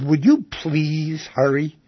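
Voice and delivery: slow, drawn-out, mildly angry plea; retold angry voice. Someone back in a supermarket line to a slow shopper, mildly angry. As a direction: imitate an impatient customer, stretching the words. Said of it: "in an angry voice".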